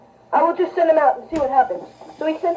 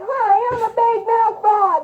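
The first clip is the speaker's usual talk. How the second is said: big-mouthed frog; 5 semitones higher than usual. Acted. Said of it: "about the wide-mouthed frog".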